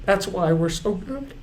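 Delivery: high, tearful voice with long breaks; choked up. Real, not acted. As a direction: fight real tears to get each phrase out. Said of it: "I'm getting choked up".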